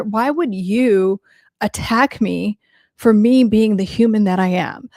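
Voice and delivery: mock indignation, drawn out on "you"; imitating someone affronted at being called out; imitated indignant narcissist. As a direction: play the wronged victim, lightly hammed-up.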